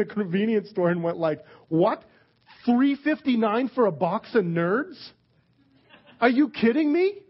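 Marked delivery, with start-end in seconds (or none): 1.7-7.2 mock outrage. Preacher mimics a shopper shocked at prices with mock outrage. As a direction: act shocked at the price of candy.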